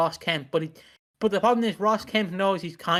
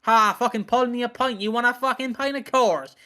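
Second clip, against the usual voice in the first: hammed-up Cockney geezer, pitched up; mock sweary pub regular, higher and punchy; Danny Dyer; 5 semitones higher than usual. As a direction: play a cursing London hard man. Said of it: "he's just being Danny Dyer".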